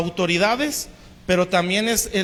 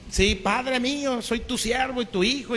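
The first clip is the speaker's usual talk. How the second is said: mild tearful plea; 3 semitones higher, 4 dB quieter than usual. Retold or imitated. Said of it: "y ahí le llora David".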